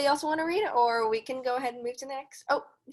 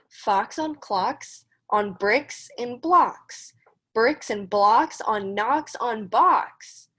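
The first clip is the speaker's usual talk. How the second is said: measured storybook read-aloud; reading to children; slower than usual. Acted. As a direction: read the rhyme steadily for the kids. Teacher reads Dr. Seuss aloud.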